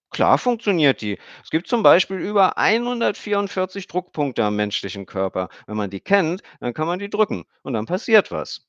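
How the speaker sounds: put-on high chattering girl's voice; a kid explaining earnestly; little girl. A narrator's reading. Emmy explains her haircut to Stefan, high girl's voice.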